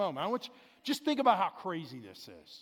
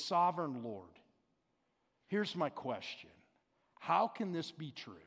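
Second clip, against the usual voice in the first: humble; 4 semitones lower than usual. Retold or imitated. Pastor voices Abram calmly questioning God, humbly. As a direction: ask "Sovereign Lord" gently and humbly, with no anger. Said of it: "very humbly and he says".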